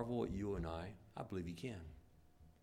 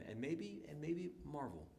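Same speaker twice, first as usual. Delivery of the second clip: soft musing; 3 semitones higher, 7 dB quieter than usual. Acted. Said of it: "softened repeated phrase".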